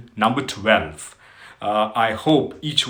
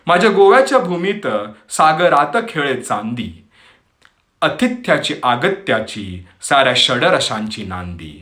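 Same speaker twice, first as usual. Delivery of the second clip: poem recitation; much faster than usual. Acted. Host recites Marathi poem on Goa to listeners, poetic recitation. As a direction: recite in measured phrases, pausing between lines.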